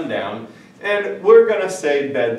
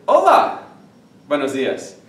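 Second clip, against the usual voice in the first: friendly greeting demo; 5 dB louder than usual. Shown as a demonstration. Teacher acting out greeting a person. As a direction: greet someone cheerfully. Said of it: "You're gonna say".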